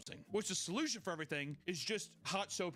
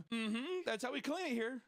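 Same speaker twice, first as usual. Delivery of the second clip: mock Peg; 9 semitones higher than usual. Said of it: "He's like".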